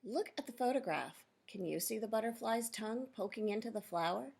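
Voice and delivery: clear, measured read-aloud for a class; reading to children. Acted. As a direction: read the picture book out to the kids. Teacher reads book to class.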